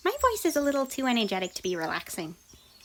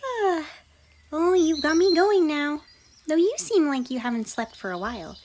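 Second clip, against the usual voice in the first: exaggerated shock; 2 semitones higher than usual. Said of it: "her exaggeratively shocked tone".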